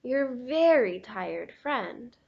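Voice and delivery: loud, groaning tired crayon voice; weary Gray Crayon. Acted. Gray Crayon pleading with Duncan for small things, worn out. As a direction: moan about the huge animals.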